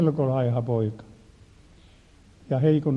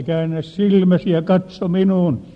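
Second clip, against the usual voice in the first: repeated command; 3 semitones higher, 4 dB louder than usual. Retold or imitated. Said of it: "käskin uudestaan".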